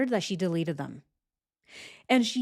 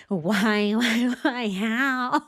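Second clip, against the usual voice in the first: loud, laughing why why how; louder, laughing in disbelief; 3 semitones higher, 4 dB louder, much slower than usual. Real, not acted. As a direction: laugh through the questions.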